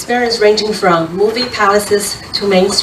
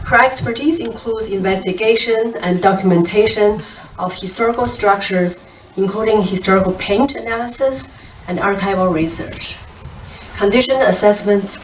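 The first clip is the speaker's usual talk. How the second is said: slightly winded, catching breath; breathless after running over. Real, not acted. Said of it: "I'm still catching my breath".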